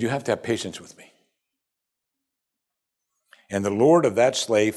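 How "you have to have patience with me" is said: softer, fast desperate begging; quiet plea. Acted. Slave on his knees begging the master, soft and urgent. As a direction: beg quietly from the floor.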